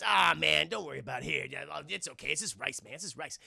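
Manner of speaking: a hint of a sly reassuring vampire; vampire calming Michael while tricking him; fake soothing.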